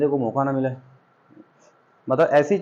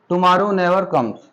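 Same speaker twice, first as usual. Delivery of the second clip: slow read-out; much slower than usual. Shown as a demonstration. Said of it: "teacher reads example sentence slowly".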